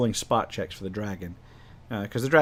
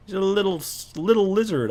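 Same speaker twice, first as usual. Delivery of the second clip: high-pitched mocking jeer; pitched-up taunting put-down; 9 semitones higher than usual. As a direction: belittle the little creature in a raised voice. Half ogre mocking the dragon.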